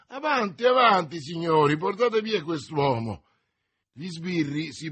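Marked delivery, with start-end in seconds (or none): 0.1-3.2 high, loud urging; loud command. A narrator's reading. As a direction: order the guards away with the prisoner. Urging guards to take prisoner. (ordine a gran voce)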